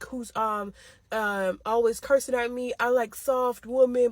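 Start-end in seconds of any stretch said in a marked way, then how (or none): 2.8-4.1 slow, drawn-out mocking of his line; imitating boyfriend's preachy line, slowed down. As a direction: parrot him slowly with disdain. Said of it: "blah, blah, blah".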